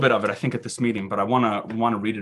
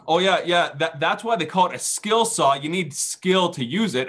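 higher-pitched know-it-all needling; a hint of a smug carpenter brother; lightly voiced critical brother; 5 semitones higher than usual. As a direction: lightly mimic a nitpicking brother. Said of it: "he all of a sudden starts saying".

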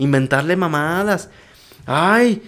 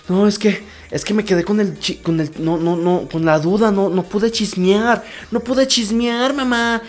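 high, whiny mock cry over missing gossip; hammed-up tearful whine to mom; mock whining daughter; 5 semitones higher than usual. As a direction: whimper like a spoiled kid.

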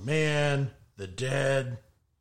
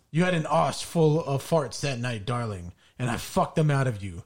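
lightly mock-romantic letter reading. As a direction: read it like a love letter, barely holding composure. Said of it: "do it in a romantic voice".

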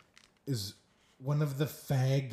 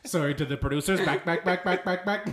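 rhythmic sportscaster chant, half laughing; apologise, then punch out the repeats; Chris Berman; 3 semitones higher, 3 dB louder, faster than usual. Acted. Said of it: "It's Chris Berman".

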